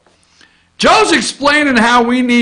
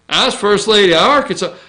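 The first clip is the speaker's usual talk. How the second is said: quick, lightly put-on Southern accent; mock Southern accent; 3 semitones lower, faster than usual. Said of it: "with her southern accent".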